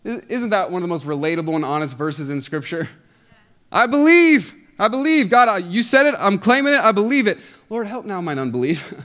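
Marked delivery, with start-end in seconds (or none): 3.7-8.9 much higher and louder, insisting I believe; desperate declaration. Acted. Believer shouting faith at God, fervent declaration. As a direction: claim it out loud, fervently. Preacher acts out a believer's plea.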